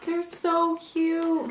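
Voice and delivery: slow, high gasp of delight. Real, not acted. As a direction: gasp and gush over them. Gasps at the cute chocolates.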